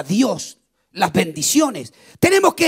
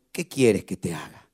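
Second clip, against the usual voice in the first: voz de Jesús, grave; 14 semitones lower, 4 dB quieter than usual. Acted. Jesus asks Bartimeo softly.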